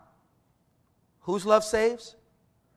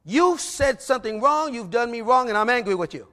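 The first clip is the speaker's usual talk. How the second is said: plain and firm; 2 semitones higher than usual. Retold or imitated. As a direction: lay it out calmly but firmly. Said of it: "as plainly as I can".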